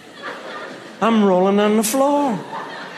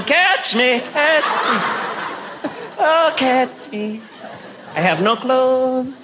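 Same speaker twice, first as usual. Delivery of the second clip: teasing sing-song call; 2 semitones higher, much slower than usual. Retold or imitated.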